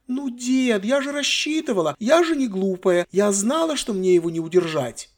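put-on high, childish complaining voice; spoiled girl. Granddaughter complaining to her grandfather, high and childish. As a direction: whine like a bored teenage girl. Sylvia justifying herself.

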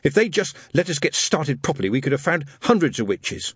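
lightly voiced grumbling boy; sulky boy to himself. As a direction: mutter it to yourself, aggrieved. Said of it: "he told himself".

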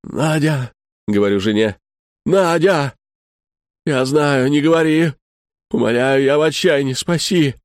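a hint of a hoarse, cracking plea; husband begging wife, mildly strained; voice breaking. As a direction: beg with a voice that threatens to break. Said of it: "голос срывается, хриплый".

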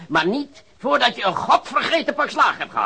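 loud menacing threat; threatening. Acted. Cops threatening the informer, loud and menacing. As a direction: promise the beating with relish.

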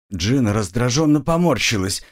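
usual speaking voice

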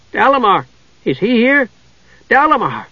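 Tass ruft aufgeregt und hoch nach Dalamar; high, eager calling out; excited calling. A narrator's reading. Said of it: "Tasselhoff waved and hooted".

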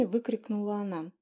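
usual speaking voice

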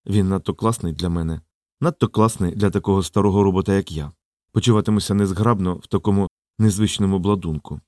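put-on low-pitched old robot thinking aloud; low, self-effacing inner voice; Jenkins musing.

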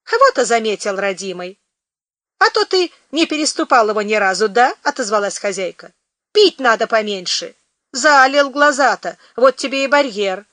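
landlady chiding a tipsy lodger; scolding. Acted.

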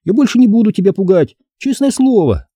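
calm him down; girl conciliatory. A narrator's reading. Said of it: "примирительно проговорила Стефани". (примирительно)

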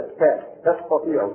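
stressing the ta of تستطيع, slow; تستطيع with a marked ta- start; reading with ta. Shown as a demonstration. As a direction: slowly hit the ta- in تستطيع. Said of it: "وفي قراءة بالفوقانية".

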